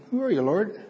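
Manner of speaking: risen, questioning Who are you, Lord; rising questioning tone. Shown as a demonstration. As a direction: ask it with a high lift on "are". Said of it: "I don't know what that inflection is".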